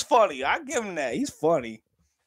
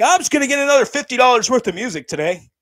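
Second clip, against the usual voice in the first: mock stoner; 8 semitones higher, 7 dB louder, faster than usual. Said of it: "You're like".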